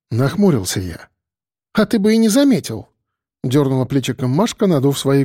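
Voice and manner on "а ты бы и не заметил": higher female voice. A narrator's reading. Masha sulking.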